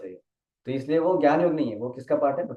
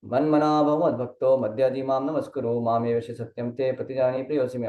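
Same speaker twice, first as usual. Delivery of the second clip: quick Sanskrit recitation; verse recitation; faster than usual. Acted. Teacher quoting Krishna's verse to students, quick recitation. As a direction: recite the verse swiftly in a continuous run.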